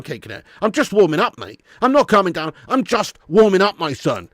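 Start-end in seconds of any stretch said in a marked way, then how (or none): 1.8-3.8 heated. Real, not acted.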